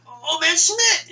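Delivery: high, loud, stretched-out cry; boy crying out to his friend as Old Man Schmidt comes; alarmed shout. Retold or imitated. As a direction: yell the name out slow in alarm. Buddy spots the old man.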